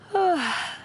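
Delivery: high, falling morning sigh; drowsy sigh. Acted. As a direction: sigh as if just waking.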